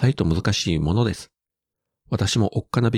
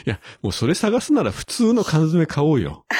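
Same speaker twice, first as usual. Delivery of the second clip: laughing; 9 semitones higher than usual. Real, not acted.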